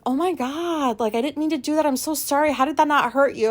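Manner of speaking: a hint of a flustered apology; apologetic friend. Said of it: "And Alicia's like".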